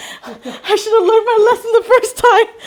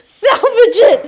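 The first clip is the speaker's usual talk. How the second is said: louder, urgent call; urgent shout; 4 semitones higher, 4 dB louder, slower than usual. Real, not acted. The Oreo broke, urgent shout to salvage it. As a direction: shout it to save the cookie. Trying to rescue the broken cookie.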